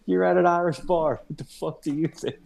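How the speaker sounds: high, snippy bartender voice; mock bartender. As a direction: sass him like a rude bartender. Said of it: "She was, she was like".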